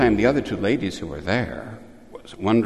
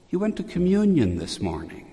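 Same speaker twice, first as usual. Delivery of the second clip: gently voiced sweetness, pitched up high; sweet voice of Our Lady; 8 semitones higher than usual. Our Lady speaking to Adele after Mass, imitated sweet voice. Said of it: "in her soft and very sweet voice".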